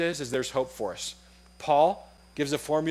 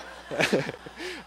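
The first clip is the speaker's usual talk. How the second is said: laugh; 4 dB quieter than usual. Real, not acted. Laughs at own story.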